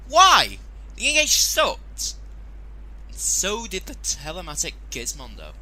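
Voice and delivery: high, loud "sucked!" stretched slowly; exasperated shout. Real, not acted. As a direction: yell it in disbelief. Exasperated outburst.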